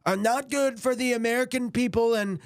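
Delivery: high lisping cartoon cat voice; Sylvester lisp impression. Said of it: "he sounded like ... Sylvester".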